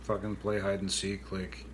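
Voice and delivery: low, muttered disbelief, lightly mocking; retold scoffing. Retelling the bride's reaction to hide and seek, lightly scoffing. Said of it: "she scoffs at first".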